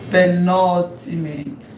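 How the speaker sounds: slow, measured "Penultimate"; slow dictation. Shown as a demonstration. Teacher repeating the term for note-taking, slowly.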